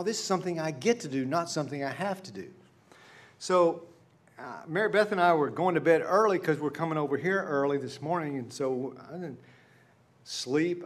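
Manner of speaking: usual speaking voice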